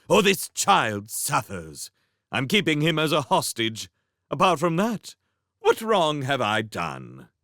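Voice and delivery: high, scheming villain voice; sneering villain prince. Acted. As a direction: taunt them as a smug villain.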